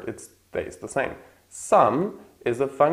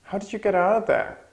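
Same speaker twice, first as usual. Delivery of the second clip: much higher voice, fall on out; high model again; 9 semitones higher than usual. Shown as a demonstration. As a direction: ask it high and surprised. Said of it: "And the last one".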